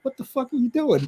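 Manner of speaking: stunned outrage at a teammate; incredulous quote. Retold or imitated. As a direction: ask it like a teammate just hit you. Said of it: "I'm like".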